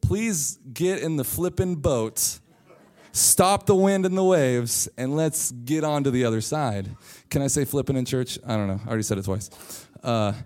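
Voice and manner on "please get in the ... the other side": mock pleading Peter. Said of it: "Peter could have said".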